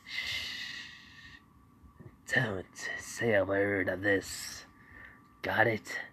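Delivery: soft, slow secretive warning; hushed whisper. Acted. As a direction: whisper so no one hears. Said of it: "he goes".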